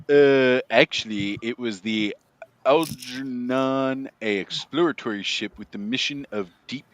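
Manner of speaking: pedantic comic shop nerd correcting you; Comic Book Guy voice. Acted. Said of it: "That was an excellent voice".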